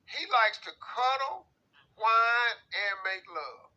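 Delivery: slow, hammed-up sob through the words; fake-cry it like a weepy lover; mock crying. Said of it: "it's gonna take me a minute".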